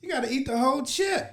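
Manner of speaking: loud, high, urgent yelling; excited shouting. Real, not acted. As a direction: yell at him to finish it. Yelling at friend over challenge.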